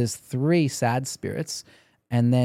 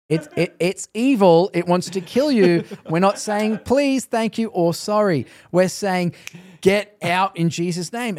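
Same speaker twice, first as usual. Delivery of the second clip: slow, emphatic correction, pitched higher; retold firm rebuke; 4 semitones higher, 4 dB louder than usual. Minister correcting Canadians who apologise to demons, retold firm rebuke. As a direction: spell it out forcefully, as if retelling a scolding.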